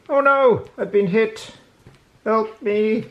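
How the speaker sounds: hammed-up wounded hero; mock cry for help, then fade; shouting while wounded. Mock cry for help when hit.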